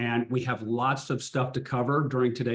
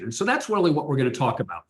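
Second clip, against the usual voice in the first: too much caffeine. Real, not acted. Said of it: "I am highly caffeinated right now".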